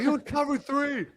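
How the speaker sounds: high, loud, stubborn shout; yelling back. Retold or imitated. Player repeating his answer to the coach, shouting stubbornly. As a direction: dig in and shout it again. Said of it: "yelled right back at him".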